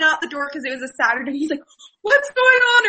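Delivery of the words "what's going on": high-pitched mock alarm; raised, urgent retold question; alarmed dad, imitated. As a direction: act out a dad rushing to the rescue.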